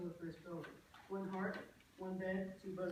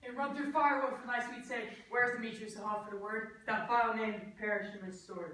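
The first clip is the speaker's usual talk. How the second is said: louder, fervent declaration on waking; passionate outburst; 7 dB louder than usual. Acted. Enchanted Lysander waking to declare love, loud passionate vow. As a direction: burst out with love-struck fire.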